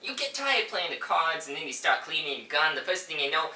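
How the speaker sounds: put-on chatty cop with a New York accent. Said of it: "New York accent".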